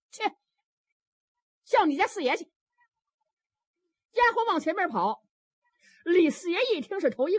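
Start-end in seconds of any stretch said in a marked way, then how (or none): 0.1-2.5 higher, louder angry command; a furious mistress sends the maid off; angry order. Acted. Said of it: "四奶奶气坏了". (气坏了的四奶奶高声吩咐)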